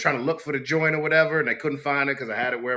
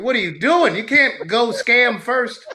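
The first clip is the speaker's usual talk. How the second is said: higher, louder, slowed-down panic; a retold freak-out at a friend, higher and louder; alarmed disbelief; 10 semitones higher, 6 dB louder, slower than usual. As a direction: hiss it like she just blew your cover. Panicking at coworker during stop.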